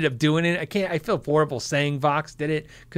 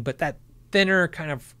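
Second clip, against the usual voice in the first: normal talking voice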